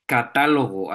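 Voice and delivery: "catálogo" with stress on TÁ; antepenúltima sílaba fuerte. Shown as a demonstration. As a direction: punch the á in "catálogo". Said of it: "Es la antepenúltima sílaba". ("catálogo", marcando la sílaba TÁ)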